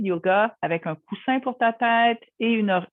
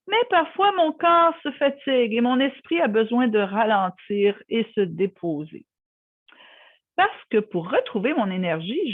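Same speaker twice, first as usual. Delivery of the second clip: guided relaxation. Acted. Guiding listeners through a superhero yogi relaxation story, soothing guided meditation. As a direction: lead a child-friendly yoga nidra, settling gradually.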